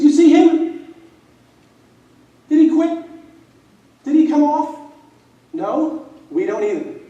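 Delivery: loud, high retold shout at a teammate; calling him out. Senior calls out a quitting teammate, loud shout. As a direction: bark it like a fired-up senior. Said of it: "he calls me out".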